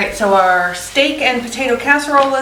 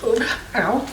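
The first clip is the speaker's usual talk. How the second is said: burned yelp; 6 dB quieter than usual. Real, not acted. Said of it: "Touch the pan".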